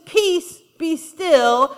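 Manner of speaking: loud, firm command to the storm; commanding rebuke. Acted. Preacher voicing Jesus rebuking the storm, loud and firm. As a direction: order the storm to be still.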